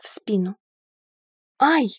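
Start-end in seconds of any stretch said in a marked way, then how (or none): 1.6-1.9 short indignant "ouch" cry; mildly outraged little cry; indignant yelp. A narrator's reading. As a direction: yelp as if shoved. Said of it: "возмущённо вскрикнула".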